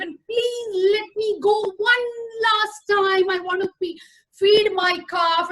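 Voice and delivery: a mother cow's tearful plea, lightly voiced; pleading. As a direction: beg the tiger for one last chance. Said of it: "Punya Koti pleaded and said".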